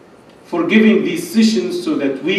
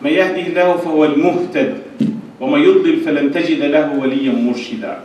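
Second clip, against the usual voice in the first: low, soft recited praise; Arabic opening invocation; 5 semitones lower, 4 dB quieter, much faster than usual. Acted. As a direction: recite the opening formula softly and evenly.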